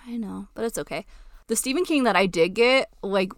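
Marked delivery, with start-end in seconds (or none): 0.1-1.1 soft unvoiced whisper. Real, not acted. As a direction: whisper it gently. Consoling about missed trip.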